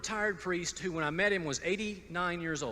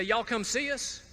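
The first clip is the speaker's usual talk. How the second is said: Southern drawl; 5 semitones higher, slower than usual. Retold or imitated. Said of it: "it wasn't like in the South when we say".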